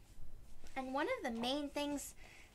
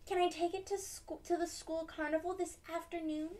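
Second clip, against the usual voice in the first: put-on eager child; 6 semitones higher, faster than usual. Child asks mom.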